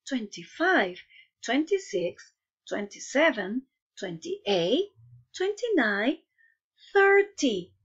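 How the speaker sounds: bouncy sing-song count-along; kids show host. Acted. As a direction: call out each number brightly for the kids. Leads class in counting aloud.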